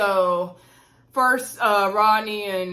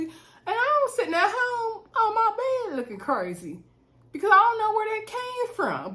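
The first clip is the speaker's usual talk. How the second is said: laughing disbelief; 6 semitones higher than usual. Real, not acted. Recalling the shock, laughing.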